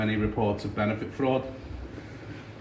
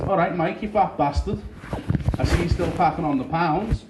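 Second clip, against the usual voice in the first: a hint of a rough matey jibe, a bit higher; mate's greeting; 5 semitones higher than usual. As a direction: rib him like an old friend. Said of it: "came up to me and went".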